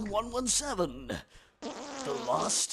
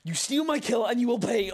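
mock threat; 2 semitones higher, 5 dB louder than usual. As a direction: shout a playful vow of revenge. Mock threat shouted while gaming.

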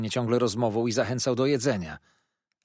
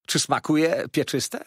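high, loud, slow question; raised servant's query; solicitous waiter; 6 semitones higher, 5 dB louder than usual. A narrator's reading. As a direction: inquire with a lifted, drawn-out voice.

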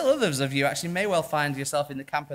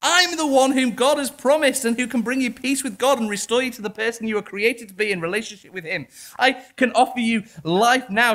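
earnest Jesus; 6 semitones higher, 3 dB louder than usual. Acted. Preacher voicing Jesus pleading with Jerusalem, earnest. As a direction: urge them lovingly to stop looking elsewhere. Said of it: "But Jesus here says".

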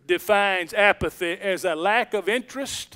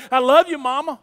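mildly raised voice, imitating a retold call; fairly loud; 4 semitones higher, 3 dB louder, faster than usual. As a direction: say it up a little for someone hard of hearing. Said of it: "so he says pretty loudly".

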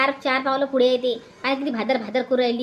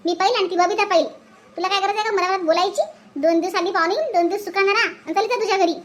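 heated scolding; 3 semitones higher than usual. Acted. Daughter-in-law quarrels with sister-in-law Asha.

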